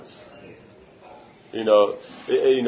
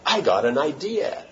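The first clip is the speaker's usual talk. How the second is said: higher, rising movie-hero eureka; mock eureka moment, pitched up; sudden bright idea; 5 semitones higher than usual. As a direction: act out a film character's sudden brainwave. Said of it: "suddenly he goes".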